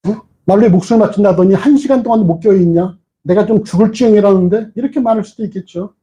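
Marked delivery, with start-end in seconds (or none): 0.0-4.7 higher, exasperated scolding; scolding friend. Retold or imitated. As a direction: tell off a friend who failed you. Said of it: "이렇게 했을 것 같아".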